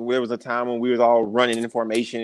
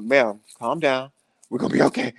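calm reassurance. Retold or imitated. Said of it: "I'm turning around like".

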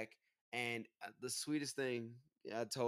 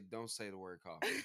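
playful shout; 5 semitones lower than usual. Real, not acted. Begging wife not to mention coffee.

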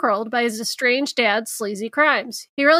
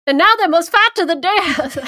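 louder, higher epic trailer read; movie trailer voice; 5 semitones higher, 5 dB louder than usual. Shown as a demonstration. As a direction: hype it like a fight trailer. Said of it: "Going into different characters".

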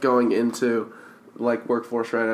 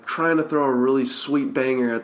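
excited party pitch; 2 semitones higher than usual. Retold or imitated. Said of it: "I could just imagine it would just be like".

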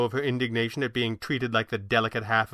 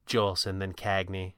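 gently; 3 semitones lower than usual. A narrator's reading. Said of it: "she said gently".

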